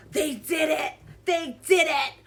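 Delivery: overdramatic product gushing, loud; mock an influencer breathlessly thrilled by a product; Michaela. Mocking influencer announcing her custom powder, loud overexcited gushing. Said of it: "how she talks about products. It's just so cringy".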